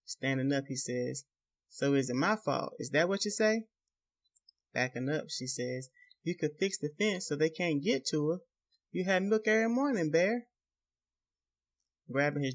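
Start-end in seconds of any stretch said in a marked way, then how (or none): 1.7-3.7 angry accusing. Acted. Husband accusing wife. 6.2-10.5 high, pleading and frightened; desperate pleading. Acted. Wife backing away, pleading.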